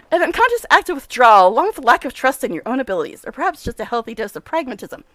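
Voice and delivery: lightly played brisk, self-important scientist; a touch of the mad professor, pleased; eccentric scientist. Nenio analysing.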